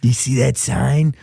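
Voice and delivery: Hank Kingsley. Acted. Answering the co-host's impression with one, low and deliberate. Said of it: "That's my Hank Kingsley".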